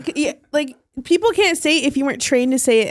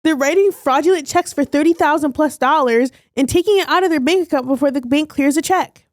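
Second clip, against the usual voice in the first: stagey, over-enunciated announcement; bad skit acting; 2 semitones higher than usual. Explaining the bank scam in a staged bit, acted earnestness. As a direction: recite it like a stiffly rehearsed reveal. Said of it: "You're the worst actor".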